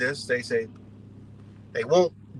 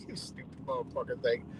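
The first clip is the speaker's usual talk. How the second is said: much higher, softer disbelieving squeal; squeaky exasperated insult; 9 dB quieter than usual. Real, not acted. Reacting to truthers online, a high, soft exasperated squeak. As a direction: let it out as a strangled high insult.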